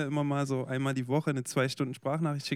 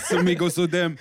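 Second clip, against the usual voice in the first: laughing echo; 5 semitones higher, 9 dB louder than usual. Pretend. Echoing the silly lyric.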